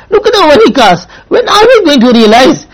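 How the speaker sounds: tearful, pleading rebuke; crying as you scold gently; voice breaking. Real, not acted. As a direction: let the tears catch the words. Preacher breaks down over waste.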